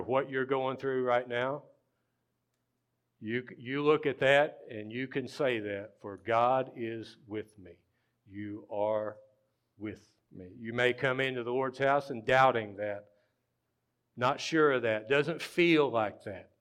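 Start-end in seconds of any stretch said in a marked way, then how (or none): 6.0-10.5 slow, spaced-out declaration; slow Psalm reading. Real, not acted. Preacher telling doubters what they can say, slow and deliberate. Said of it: "We're just gonna read it slow".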